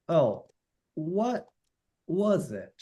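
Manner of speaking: "Oh, what was it" in separated words, "what" pitched high; emphasized question. Shown as a demonstration. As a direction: lift "what" high and pause between the words. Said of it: "e-, emphasize".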